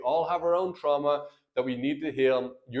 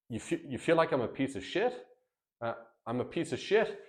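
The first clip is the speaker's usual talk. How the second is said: soft questioning rise on "piece of shit"; curious mirroring question; 4 dB quieter than usual. Shown as a demonstration. Husband mirroring his wife's insult, softly questioning. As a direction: ask it back gently, unsure. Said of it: "repeat it back as a question".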